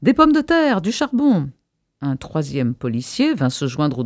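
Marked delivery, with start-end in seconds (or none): 0.0-1.5 high, louder cry of a demanding crowd; foule qui gronde. A narrator's reading. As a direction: call out the demand like an angry crowd. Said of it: "commença à gronder de plus en plus fort". (clameur de foule qui réclame)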